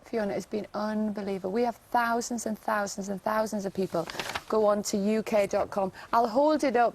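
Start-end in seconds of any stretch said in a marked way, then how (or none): 4.5-5.9 Geordie accent, U K dot com said in a flat Geordie way. Real, not acted. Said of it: "I think it's my Geordie accent".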